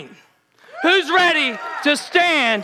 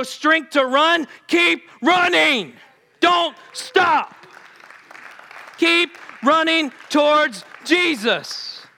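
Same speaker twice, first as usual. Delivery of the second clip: fiery preaching. Acted. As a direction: drive the congregation on, building. Preaching at full force.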